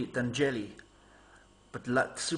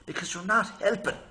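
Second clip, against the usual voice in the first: mock telling-off; 4 semitones higher than usual. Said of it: "all I could do not to say".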